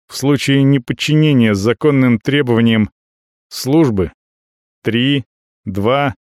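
flat mechanical robot voice. Acted. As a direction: speak like a machine, no emotion. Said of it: "голосом робота говорит".

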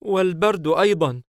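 put-on high, loud little-boy voice; child voice. Child admits hardship to Hayim, high child voice. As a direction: play a small child, pitched well up. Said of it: "الطفل ونبرة صوته تنخفض".

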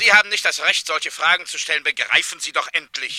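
loud, stern scolding of an intruder; an official losing patience, loud and cutting; angry rebuke. Acted. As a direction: slap him down, raising your voice. Official snaps at the pushy doctor.

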